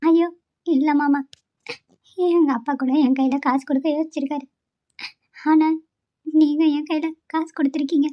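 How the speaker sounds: soft, halting words through quiet tears; tearful. Acted. Daughter-in-law thanks her father-in-law, softly tearful. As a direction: hold back tears as you thank him. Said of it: "இப்படி அழுகுற?".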